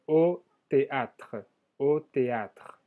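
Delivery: théâtre ending on a light tr, no E; silent final E. Shown as a demonstration. Teacher demonstrating French for to the theatre, silent final E. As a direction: say au théâtre with the last consonants sounded and the E dropped. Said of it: "El E final no se pronuncia".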